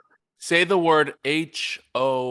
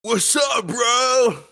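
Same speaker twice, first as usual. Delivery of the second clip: shouted, very high Orange County surfer greeting; hammed-up Orange County dude, pitched way up; Orange County bro; 12 semitones higher, 4 dB louder, much slower than usual. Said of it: "in Orange County, we go, we say this".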